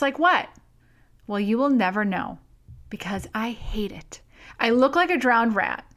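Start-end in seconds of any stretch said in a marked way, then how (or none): 2.9-4.2 hushed, breathy confession; whispered admission; whispered aside. Real, not acted. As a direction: drop to a whisper like sharing a secret. Confessing hating her wet hair.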